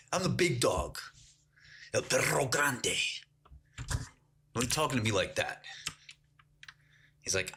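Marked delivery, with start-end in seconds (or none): 0.1-5.6 mock bragging. Retold boast, continuing mock indignation.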